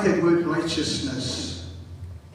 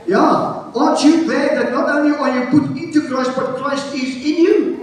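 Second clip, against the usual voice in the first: raised, exhorting pulpit voice; full-force preaching; 8 semitones higher, 3 dB louder than usual. Real, not acted. Preacher asking believers if they are glad, full-force preaching. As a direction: press each point home to the crowd.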